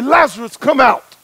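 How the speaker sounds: loud call into the tomb. Retold or imitated. Jesus calling Lazarus from the tomb, a loud summons.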